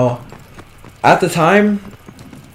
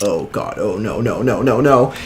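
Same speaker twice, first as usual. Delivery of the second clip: low, soft muttered dread; 4 semitones lower, 4 dB quieter than usual. Retold or imitated. As the teacher looks at him on the phone, low soft dread. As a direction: sink into quiet panic. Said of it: "I'm like".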